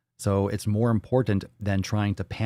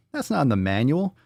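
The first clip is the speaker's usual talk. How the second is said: mock emphatic; 5 semitones higher than usual. Second take, higher.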